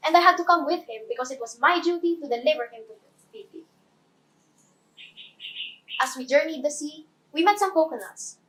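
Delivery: lively first-person storyteller, lifting on the exciting bits; Moana. Acted. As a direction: play a chatty film heroine introducing herself.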